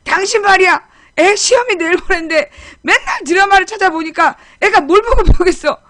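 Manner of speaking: loud, high-pitched accusing rant; picking a fight. Retold or imitated. Husband blaming his wife for their daughter's TV watching, quarrelsome. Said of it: "나한테 시비를 거는 거야".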